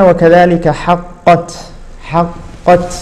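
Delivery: وكذلك حقت, slow, the ق merged into the ت; slow recitation. Shown as a demonstration. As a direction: read حقت slowly, no echo on the ق. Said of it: "فما هكذا كانت العرب تنطق". (تلاوة بطيئة بلا قلقلة)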